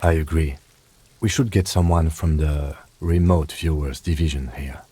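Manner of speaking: dry, deadpan sarcasm; sarcastic. Acted. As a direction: say it with a straight-faced jab. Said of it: "He's being sarcastic".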